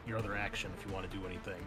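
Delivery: ordinary talk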